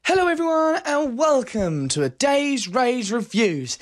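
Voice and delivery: upbeat show host intro; bright YouTube host welcome; presenter voice. Acted. Opens his review show.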